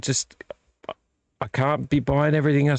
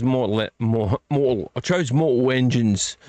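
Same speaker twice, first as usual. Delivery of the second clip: Cockney. Real, not acted. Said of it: "suddenly sound Cockney".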